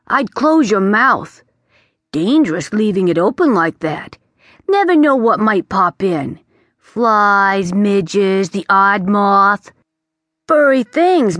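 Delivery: put-on a know-it-all bat lecturing the boy; chatty bat. The bat warns the young prince, breezy and chatty.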